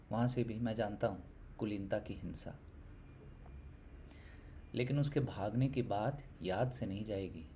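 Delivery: earnest Hindi poem reading, swelling and subsiding; poetry recitation. Acted. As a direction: recite the poem with measured pauses, building on emphatic lines.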